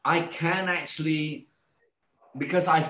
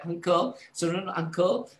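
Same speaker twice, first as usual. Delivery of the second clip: nurse calling patient; 6 semitones higher than usual. Retold or imitated. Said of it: "this nurse was like".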